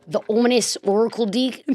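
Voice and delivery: "ominous oracle" in a broad New Zealand accent; New Zealand accent, a touch exaggerated. Shown as a demonstration. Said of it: "That's the New Zealand accent".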